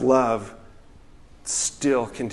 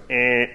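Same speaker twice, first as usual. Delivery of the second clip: short mock buzzer noise; quick "eh" as a buzzer; imitated reject buzzer; 5 dB louder than usual. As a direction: imitate a machine rejecting something. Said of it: "it goes".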